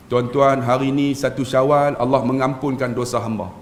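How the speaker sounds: mildly mournful re-enacted sermon; plaintive sermon tone. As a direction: preach with a gentle touch of sorrow. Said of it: "Sebab nada saya sayu".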